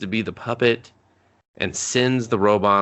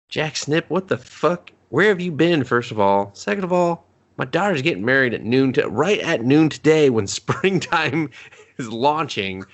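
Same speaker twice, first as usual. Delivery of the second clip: high, exasperated papa rant; mock angry father; 5 semitones higher than usual. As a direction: scold like an outraged dad.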